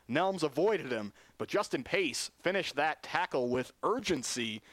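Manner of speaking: brisk, lifted broadcast call of the game; radio football commentator calling the action; live play-by-play. Acted. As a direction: keep the play-by-play energy up for the listeners.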